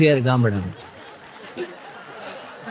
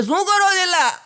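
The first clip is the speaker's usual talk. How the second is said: much higher, startled question; wife yelping in surprise at her husband. Acted. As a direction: jump up high as if caught off guard. Wife startled by sudden kiss.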